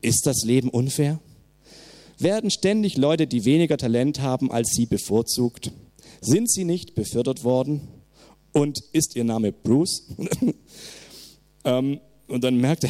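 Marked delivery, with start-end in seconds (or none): 0.0-10.0 a hint of a robotic computer voice; barely voiced machine announcement. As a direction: lightly play the automated message. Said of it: "so eine Computerstimme sagt dann".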